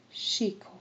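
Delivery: breathed, soft, unvoiced name; hushed echo. A narrator's reading. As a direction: let the name hang, barely breathed. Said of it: "Dieses Wort, ihr Name".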